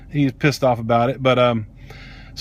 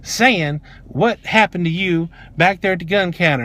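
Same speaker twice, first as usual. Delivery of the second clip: slow, emphatic mock scolding; imitated defensiveness; 3 semitones higher than usual. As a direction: imitate a defensive manager laying down the law. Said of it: "she's very defensive automatically".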